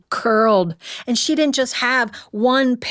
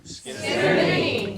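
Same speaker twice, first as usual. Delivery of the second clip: crowd laughing repeat; 4 dB quieter, much slower than usual. Real, not acted. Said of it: "You're terrible".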